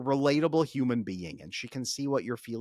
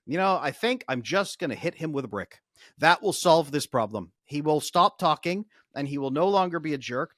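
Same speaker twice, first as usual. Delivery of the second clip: mock husband's plan; 3 semitones higher, 6 dB louder than usual. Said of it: "share the solution".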